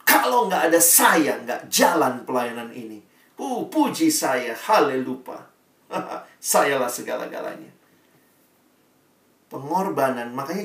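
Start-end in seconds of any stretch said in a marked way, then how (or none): 0.1-7.7 boastful servant. Retold or imitated. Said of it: "Kalau sudah mulai hitung-hitungan".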